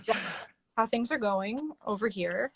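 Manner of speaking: tipsy slurry voice. Real, not acted. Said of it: "I'm officially very drunk".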